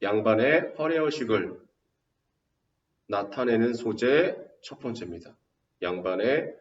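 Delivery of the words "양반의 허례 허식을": dragged out slowly for notes; slow dictation. Shown as a demonstration. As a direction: let them write it down. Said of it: "써놓으세요". (필기하게 천천히 불러주기)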